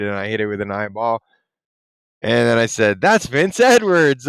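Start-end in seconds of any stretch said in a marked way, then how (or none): 3.0-4.3 excited exclamation, slower, higher and louder; retold excitement. Telling viewers his chat reply, retold excitement. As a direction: draw it out with excited emphasis.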